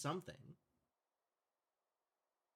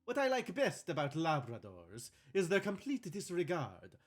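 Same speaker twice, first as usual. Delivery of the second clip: bad Italian accent. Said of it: "faking a bad Italian accent".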